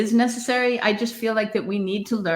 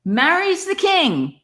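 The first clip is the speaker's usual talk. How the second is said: amused disbelief; 3 semitones higher than usual. Real, not acted. Amused at musical's twist.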